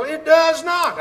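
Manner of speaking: loud, high yell of an angry caller; imitating a caller yelling back; retold yell. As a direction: shout him down in flat denial. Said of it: "Stanley would yell".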